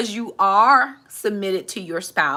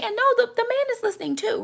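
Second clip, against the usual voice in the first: emphatic correction; 13 semitones higher than usual. Real, not acted. Correcting wrong reading.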